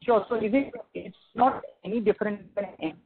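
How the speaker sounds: muffled, like a covered mic. Real, not acted. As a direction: speak with a muffled voice. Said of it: "your voice is sounding muffled".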